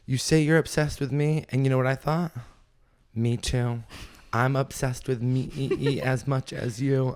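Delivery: high sing-song mock of a lyric; a hint of a mocking pop-star voice; mocking a singer. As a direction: parody her lyric sweetly, slow at the end. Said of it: "she goes".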